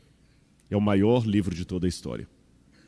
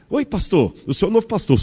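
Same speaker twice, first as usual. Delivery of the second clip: put-on child voice; 9 semitones higher, 4 dB louder than usual.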